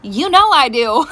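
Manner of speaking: slow, breaking into laughter; laughing. Real, not acted. Mom agreeing to the girls' day, laughing. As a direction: give in with a laugh.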